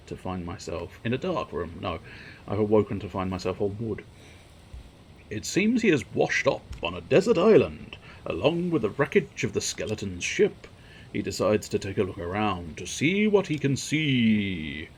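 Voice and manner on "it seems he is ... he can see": storybook narration. Acted. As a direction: announce it like a storyteller. Reads game narration.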